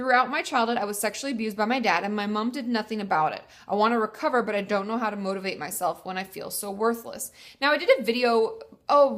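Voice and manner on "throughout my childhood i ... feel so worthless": normal talking voice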